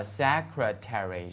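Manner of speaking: "secretary" slowly, all syllables sounded out; every syllable pronounced. Shown as a demonstration. Teacher shows a hard word to students, slow syllable-by-syllable model. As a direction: spell out "secretary" by ear, with a full "-tary". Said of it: "音节呢又特别特别多".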